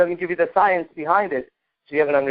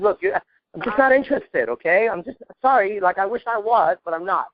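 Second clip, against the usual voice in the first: polite disinterest; 2 semitones higher than usual. Shown as a demonstration. Coach demoing a neg to a student, apologetic brush-off. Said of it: "You get the tone?".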